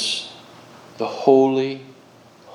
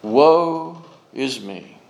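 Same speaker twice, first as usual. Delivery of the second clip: slow, drawn-out lament; solemn cry of woe; much slower than usual. Acted. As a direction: stretch out each word in restrained dread. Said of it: "He cries out".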